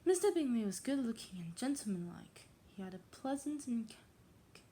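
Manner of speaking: put-on reading aloud in a tentative English accent; attempted English accent. Untrained reader trying a classic novel, English accent. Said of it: "how to say that in English accent".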